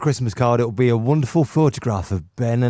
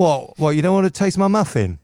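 high, fast pirate menace; scary pirate voice; 5 semitones higher, faster than usual. Pretend. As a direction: push the muffin like a creepy pirate. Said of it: "You sound like a scary pirate".

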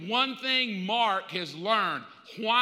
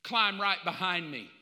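Jonathan calling out. Acted. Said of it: "Jonathan responds".

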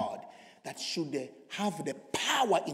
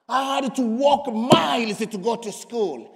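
impassioned testimony; 6 semitones higher, 9 dB louder than usual. Real, not acted. Preaches testimony at full force.

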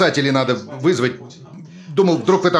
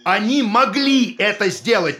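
much higher, slow, forced-out cry; anguished outburst; 8 semitones higher, slower than usual. Acted. Husband justifying the fake report to his wife, anguished. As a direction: burst out, defending himself.

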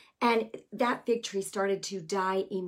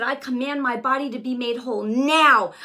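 forceful, louder proclamation; loud command; 6 dB louder than usual. Retold or imitated. Preacher retelling her prayer, a loud command. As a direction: command it firmly. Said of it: "forgive me for yelling".

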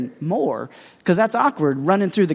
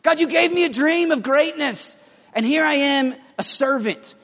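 whiny complaint; 3 semitones higher than usual. Pretend. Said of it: "he could have just sat back and been like".

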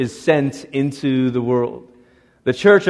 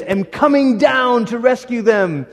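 voice of God; 7 semitones higher than usual. Acted. God's promise, emphatic.

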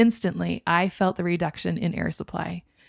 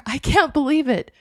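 amazed; 6 semitones higher, 4 dB louder than usual. A narrator's reading. EMT amazed at recovery.

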